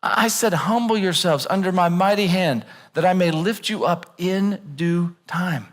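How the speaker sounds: lightly voiced patient God; hint of a calm reassuring God; gentle voice of God. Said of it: "And God's like".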